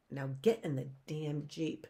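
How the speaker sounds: a touch of a menacing villain; lightly voiced villain order. A narrator's reading. Stefano orders the orphans into the Jeep, lightly menacing.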